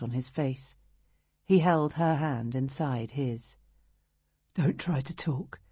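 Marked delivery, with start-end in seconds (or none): 4.5-5.6 raw tender voice. Acted. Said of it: "His voice was raw and gravelly, but full of tenderness".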